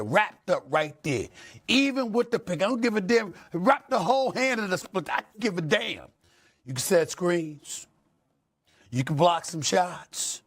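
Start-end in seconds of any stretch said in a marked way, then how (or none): 1.7-10.4 heated rant. Real, not acted. Host's fiery lecture to players.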